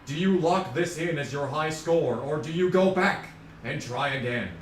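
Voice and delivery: hint of a hammed-up game-show God; Keanu Reeves impression. Streamer playing Keanu offering a choice after death, lightly put-on voice. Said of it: "And Keanu says".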